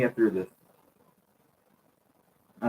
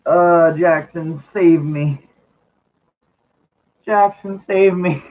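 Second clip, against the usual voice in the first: mock pleading; 5 semitones higher, slower than usual. Real, not acted. Pleading friends for rescue, laughing.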